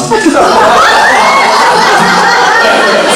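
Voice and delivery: a burst of high, loud laughter; real laugh. Real, not acted. Bob suddenly hard of hearing.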